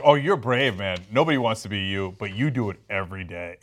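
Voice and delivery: lightly voiced Daryl cracking into a laugh; mock praise breaking into laughter; retelling Daryl's fake compliment with a laugh; Daryl quote, laughing. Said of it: "he's like".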